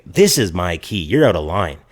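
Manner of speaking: polite objection. Retold or imitated. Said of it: "polite at this point".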